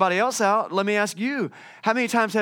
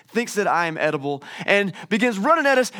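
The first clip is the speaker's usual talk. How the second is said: normal talking voice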